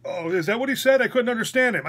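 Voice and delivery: high-pitched mocking imitation of an excuse; mock-innocent high voice; imitated nurse. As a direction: mimic a nurse making excuses, pitched right up.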